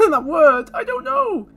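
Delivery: high, giggly outburst; laughing squeal. Real, not acted. Vlogger embarrassed about singing, laughing high. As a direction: laugh at yourself.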